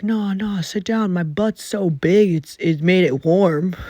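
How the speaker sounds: mocking the coworker who offers weed and a warm seat; imitating coworker. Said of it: "He's like".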